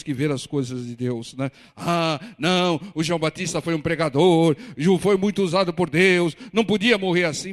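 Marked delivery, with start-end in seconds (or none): 1.8-7.5 loud, hammed-up objection; mock protest. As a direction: imitate an indignant believer's complaint. Mimics believers protesting the Baptist's death.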